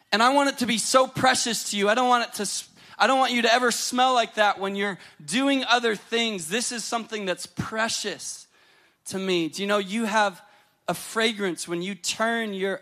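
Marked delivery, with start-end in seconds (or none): 0.1-9.5 fervent preaching. Acted. Voicing God's protective longing.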